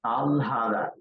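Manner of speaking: "alhada" with the l before the h; careful "alhada", l held, then h released; correct "alhada". Shown as a demonstration. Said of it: "it is pralhada".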